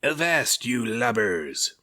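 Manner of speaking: high, loud pirate bellow; pirate captain roaring at the fleeing ship. A narrator's reading. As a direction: roar across the water. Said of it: "roared the pirate captain".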